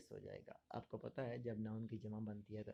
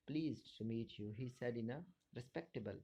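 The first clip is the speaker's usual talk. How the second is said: very slow, each word separate; slow dictation; much slower than usual. Shown as a demonstration. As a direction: read it out slowly like a dictation. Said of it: "teacher dictates example sentence slowly".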